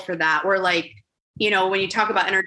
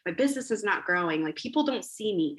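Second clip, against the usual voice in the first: quiet; 7 dB quieter than usual. Retold or imitated.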